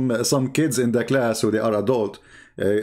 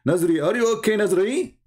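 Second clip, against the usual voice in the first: mock teacher; 8 semitones higher than usual. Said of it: "he don't know what to say".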